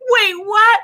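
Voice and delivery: loud, high double take; surprised. Retold or imitated. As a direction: snap up in pitch, caught off guard. Agent surprised she speaks Spanish.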